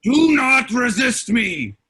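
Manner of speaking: slow booming command; demon threat. Acted. Demon father ordering the friends, slow furious shout. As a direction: roar it down at the humans.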